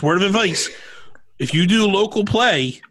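hushed conspiratorial whisper. Real, not acted. Host whispering a secret tip to his co-hosts.

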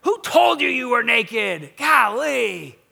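fed up, frustrated outburst. Acted. Preacher imagining God questioning naked Adam, frustrated. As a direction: exclaim it in loud frustration. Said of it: "maybe you hear frustration".

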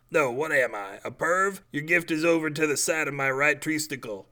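the tree snaps back at being called a perv; offended tree. Acted. Tree character voiced.

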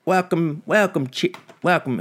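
high mock Aussie welcome; Australian accent. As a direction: play at being Australian. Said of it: "doing with my fucking accents".

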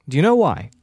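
whispered "Do you know why?". Real, not acted. Teasing a friend with a secret, whispered. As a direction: lean in and whisper the question. Conspiratorial question.

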